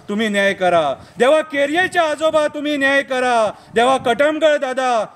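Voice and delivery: declaimed protest poem, falling line endings; poem recitation. Acted. Poet pleading to God for protesting taxi drivers, poem recitation. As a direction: recite it as an impassioned plea, line by line.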